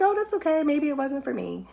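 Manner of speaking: high, light shrug-it-off tone; easy acceptance. Retold or imitated. Voicing her own untroubled acceptance.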